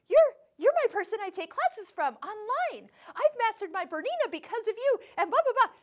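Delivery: high, loud, gushing imitation of a fan; excited fan. Southern fan recognizes her online teacher on the plane, excited. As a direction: gush loudly, pitched well up. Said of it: "get so excited".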